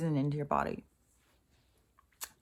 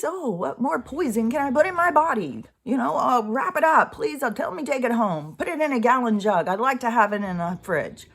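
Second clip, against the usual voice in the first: hammed-up greedy voice, higher; mocking people; 4 semitones higher, 4 dB louder than usual. Mocking people who keep asking for more poison, hammed-up. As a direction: sneer at them by playing them. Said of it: "people are just like".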